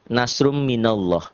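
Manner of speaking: "nasrum minallah" slowly, ending in round "-lloh"; slow recited "nasrum minallah" with heavy L; thick Allah. Shown as a demonstration. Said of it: "Karena sebelum lafaz Allah ada huruf nun".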